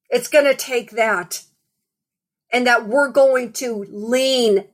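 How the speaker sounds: measured sermon cadence, slowing on key words; preaching. Acted. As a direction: build the repeated refrain like a preacher. Preaching to the congregation.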